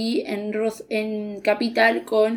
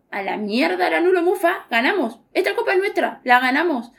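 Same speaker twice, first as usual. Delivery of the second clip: jubilant quote; 4 semitones higher than usual. Retold or imitated. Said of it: "nosotras dos dijimos".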